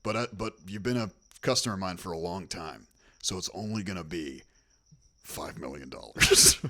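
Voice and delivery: hint of a sleazy repairman; lightly voiced shady contractor.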